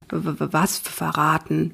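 a shy man tripping on his words; stammering. Acted. Rory, caught off guard by Mathilda, stammers softly. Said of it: "stammelt Rory".

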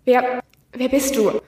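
lightly voiced robotic speech, slow; a touch of synthetic voice; toneless computer voice. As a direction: speak like a machine reading words, slowly. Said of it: "nur eine seltsame, tonlose Stimme".

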